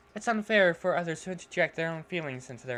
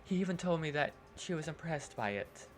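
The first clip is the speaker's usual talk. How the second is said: put-on soft shy girl voice; 6 dB quieter than usual. Yuri voice.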